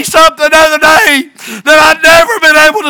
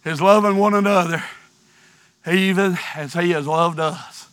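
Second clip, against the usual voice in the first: low, much softer pleading voice; hushed plea; 12 semitones lower, 12 dB quieter, faster than usual. Real, not acted. Preacher begging the congregation not to quit, low and soft. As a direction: drop to a near-whisper and plead with them.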